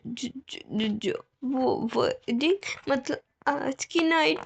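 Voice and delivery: hesitant, stammering, slow; shy bride. Acted. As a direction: stumble over the embarrassing words. Omega shyly hints. (शर्माती, अटकती हुई धीमी आवाज़)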